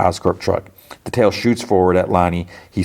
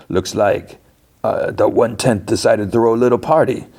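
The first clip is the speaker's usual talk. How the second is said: smug, higher gang-boss sneer; villain voice; 4 semitones higher than usual. Acted. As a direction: sneer it like a cocky thug. Gang leader taunts Spider-Man.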